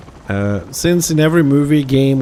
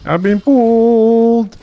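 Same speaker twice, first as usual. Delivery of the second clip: indignant; 8 semitones higher, 6 dB louder, slower than usual. Real, not acted. Complaining about being pulled.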